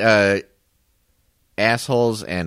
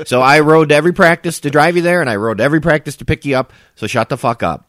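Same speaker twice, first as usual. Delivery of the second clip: angry; 5 semitones higher, 6 dB louder than usual. Real, not acted. Angry rant at his sister.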